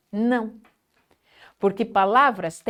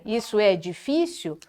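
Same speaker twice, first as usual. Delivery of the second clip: desanimado; 2 semitones lower, 5 dB quieter than usual. Shown as a demonstration. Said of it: "ao invés de dizer".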